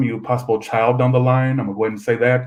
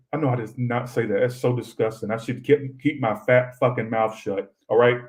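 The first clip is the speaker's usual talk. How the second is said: ordinary delivery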